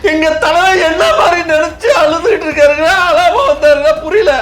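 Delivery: high, worked-up protest; indignant. Acted. Fan defending his leader's tears, indignant.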